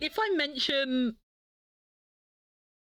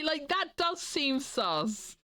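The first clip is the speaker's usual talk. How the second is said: suspicious; 4 semitones higher, much slower than usual. Acted. Slow suspicious repeat.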